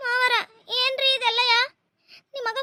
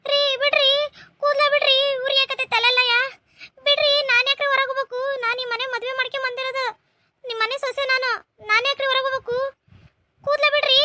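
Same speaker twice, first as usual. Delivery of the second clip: pained screaming plea; 5 semitones higher, faster than usual. Acted. Wife screams at her husband to let go of her hair. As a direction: scream as he pulls your hair.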